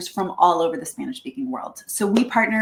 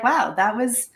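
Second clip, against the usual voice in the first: unimpressed after a bad date. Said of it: "if you're like".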